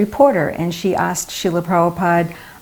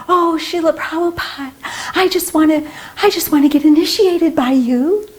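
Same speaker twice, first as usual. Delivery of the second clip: put-on much higher, breathless gushing girly voice; gushing English lady; 10 semitones higher than usual. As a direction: play the dolled-up admirer pleading sweetly. Imitating the made-up English lady.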